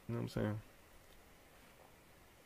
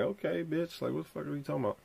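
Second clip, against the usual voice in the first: put-on annoyed kid; 6 semitones higher, 5 dB quieter, faster than usual. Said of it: "I'm like".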